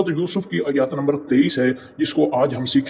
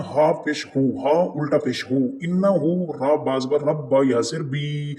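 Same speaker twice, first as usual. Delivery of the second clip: slow spelling out; slower than usual. Shown as a demonstration. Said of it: "हमजा नून ज़ेर इन".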